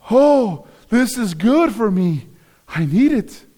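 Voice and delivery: a touch of delighted discovery; eager acceptance. Retold or imitated. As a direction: grab it gladly, oh this is good. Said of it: "That's what he's saying".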